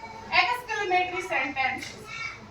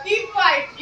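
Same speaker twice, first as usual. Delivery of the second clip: firm order; 3 semitones higher, 3 dB louder than usual. Shown as a demonstration. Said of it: "तो मैं आपको ऐसे बोल रही हूँ".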